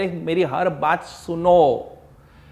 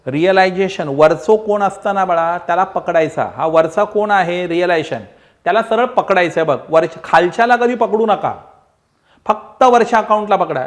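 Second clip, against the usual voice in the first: emphatic; 5 dB louder than usual. Real, not acted. Teacher drives home the rule.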